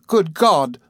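high, delighted exclamation; astonished cry. A narrator's reading. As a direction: cry out in happy surprise. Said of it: "cried Traddles".

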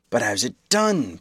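exasperated. Acted. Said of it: "in a tone of exasperation".

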